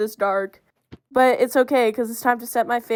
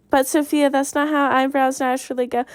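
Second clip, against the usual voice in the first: mock the naysayer lightly, pitched up and rushed; imagined objector; 3 semitones higher, faster than usual. Viewer objecting to her evil eyebrows, lightly voiced and fast.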